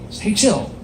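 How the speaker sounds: easy laid-back sign-off; chilled-out mantra. Acted. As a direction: let it drop and stretch out lazily. Repeats his laid-back mantra.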